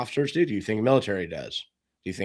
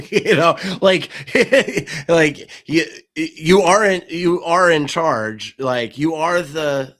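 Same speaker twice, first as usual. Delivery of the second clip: laughing; 6 semitones higher, 8 dB louder, slower than usual. Real, not acted. Laughing while making the point.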